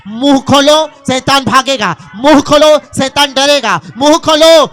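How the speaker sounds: building, punchy preacher's call; rallying cry. Real, not acted. Preacher urging the church to open their mouths, rising call. Preacher rallies congregation against Satan.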